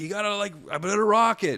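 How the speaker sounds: shrill, very high-pitched screaming yell. Speaker retells pushing a car on ice and yelling at his wife: retelling his own screaming. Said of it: "I'm like screaming at her".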